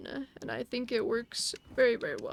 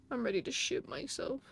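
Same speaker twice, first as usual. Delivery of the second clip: scared whisper; 7 dB quieter than usual. Real, not acted. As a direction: whisper it in fear. Hiding, terrified.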